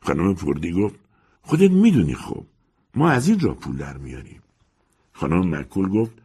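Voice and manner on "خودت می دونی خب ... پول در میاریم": higher, gossiping landlady over tea; chatty old landlady, a bit pleased. Acted. Landlady justifies herself.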